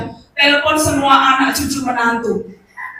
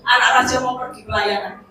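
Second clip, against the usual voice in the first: commanding shout; faster than usual. Retold or imitated. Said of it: "Saya cuma katakan seperti itu".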